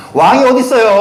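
emphatic rhetorical question; incredulous outburst. Real, not acted. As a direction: fling it at the crowd in disbelief. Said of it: "repeated rhetorical question".

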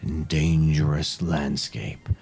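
slow, ominous fantasy narration; epic narration. Acted. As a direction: build dread as you describe it. GM describes grim landscape.

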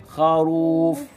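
خروف with a long drawn-out rū; stretched syllable. Shown as a demonstration. Teacher showing pupils the letter ra with damma, stretched syllable. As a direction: draw out the رو in خروف. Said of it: "رو في كلمة".

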